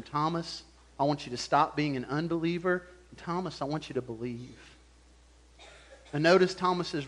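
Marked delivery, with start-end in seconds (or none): 0.0-4.6 gentle command. Retold or imitated. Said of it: "And then he commands him".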